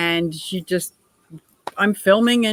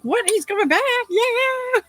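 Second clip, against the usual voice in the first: retold surprise. Retold hearing John is back.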